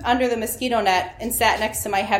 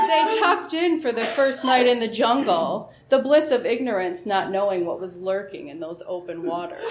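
dramatic true-crime narrator, lightly done; Keith Morrison voice. Retold or imitated. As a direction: overplay it like a TV crime host setting the scene. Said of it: "Keith Morrison's voice would have overplayed".

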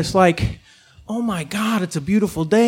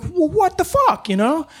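indignant retort. Retold or imitated. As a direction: push back like a proud south sider. Retorting to a staring coyote.

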